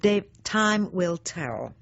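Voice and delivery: slow, pointed and knowing; knowing retort. Retold or imitated. To husband Dave, who called her mean-minded: slow, pointed retort. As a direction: let each word land like a warning.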